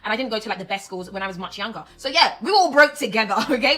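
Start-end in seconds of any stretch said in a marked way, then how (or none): 2.0-3.8 laughing. Real, not acted. Laughing about being broke.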